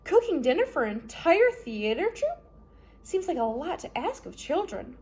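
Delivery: a hint of a kind older lady, surprised; Justice Strauss voice. Kind judge questions the children's chores.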